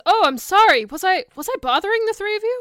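high, eager to please apology; effusive apology. Acted. Charmed foe apologizing to the party, effusive.

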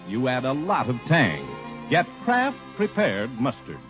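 usual speaking voice

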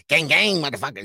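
high, loud mock gangster shout; loud, sneering parody of a bling-wearing show-off; mock gangster hype. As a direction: ham up a flashy rich kid showing off. Mocking a flashy NFT buyer.

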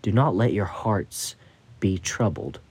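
gentle, reassuring words. Acted. Jesus calming a troubled Peter, gently reassuring. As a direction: soothe a worried friend gently. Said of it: "But Jesus very reassuringly said".

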